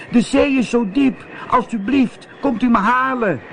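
scared cat calling up to the witch; little cat calling out. A narrator's reading. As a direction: beg the witch from the mast top. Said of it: "riep Zwervertje".

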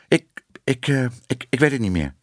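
halting, faltering start; hesitant stutter, searching; stammering unsure. Acted. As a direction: stumble over the words, lost.

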